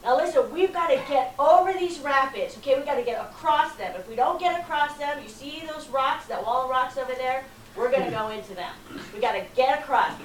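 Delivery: loud, high barked orders; guide yelling. Retold or imitated. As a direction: shout commands over roaring rapids. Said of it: "So he's yelling, the guide is yelling".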